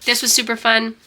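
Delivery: blocked nose from a cold; stuffy nose. Real, not acted. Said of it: "I'm sorry I sound all stuffy".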